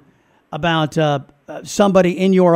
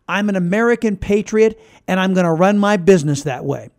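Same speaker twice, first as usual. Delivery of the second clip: defiant quote; 3 semitones higher than usual. Retold or imitated. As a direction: spit it out with defiance. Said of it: "business owners who are saying".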